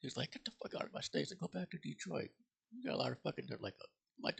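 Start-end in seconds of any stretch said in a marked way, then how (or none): 0.3-3.6 imitated yell. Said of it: "when he's yelling out Foley".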